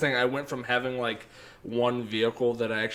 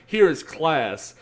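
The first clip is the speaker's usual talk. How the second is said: mock grandeur; 4 semitones higher, 6 dB louder, much slower than usual. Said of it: "I'm like".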